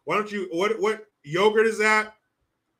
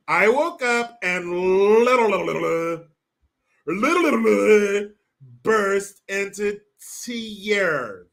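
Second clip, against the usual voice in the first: mock fake-crying actress; 4 dB louder than usual. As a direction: drag it out like a bad actress pretending to cry. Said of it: "That's how you talk like these fucking idiots".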